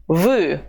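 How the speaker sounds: "Vous" with a clear rounded U; "Vous" said as voo, never E; U sound. Shown as a demonstration. Teacher showing learners the U sound in "Vous". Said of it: "Pay attention to the U sound".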